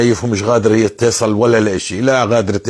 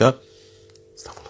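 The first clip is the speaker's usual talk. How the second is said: slow prayer; 4 semitones higher, 3 dB quieter, slower than usual. Shown as a demonstration. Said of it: "بمسك المسبح هيك".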